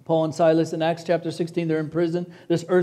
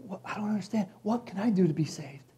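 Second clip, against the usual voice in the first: stunned jailer; 9 dB quieter than usual. Retold or imitated. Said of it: "he says".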